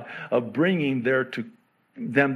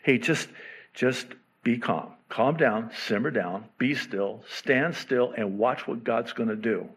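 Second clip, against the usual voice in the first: calming Moses. Retold or imitated. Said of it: "Moses is commanded to say".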